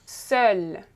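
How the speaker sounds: "Seul" with open eu and a held final L; open vowel demo. Shown as a demonstration. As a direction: model "Seul", lingering on the L. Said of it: "so it becomes seul".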